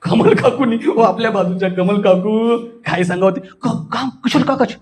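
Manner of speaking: amused telling, laughing now and then; moderate comic laughter. Shown as a demonstration. Teacher demonstrating medium comic rasa, chuckling through neighbours' gossip. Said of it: "हे मध्यम".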